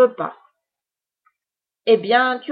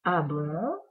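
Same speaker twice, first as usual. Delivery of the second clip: low, soft witch asking; a doubtful witch; 4 semitones lower, 6 dB quieter than usual. Acted. Witch questions Pierre's recipe.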